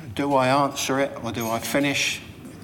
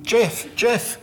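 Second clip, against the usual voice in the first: Jean calling his name; 10 semitones higher, 6 dB louder than usual. Retold or imitated. Jean pressing on phone.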